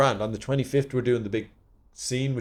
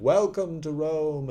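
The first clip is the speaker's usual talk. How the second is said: slow grand delivery; 6 semitones higher, slower than usual. Acted. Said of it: "fifteen lines in a row of me going".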